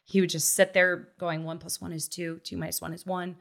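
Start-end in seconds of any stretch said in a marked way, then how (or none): 1.5-3.4 soft recital. Retold or imitated. Child reciting math in bed.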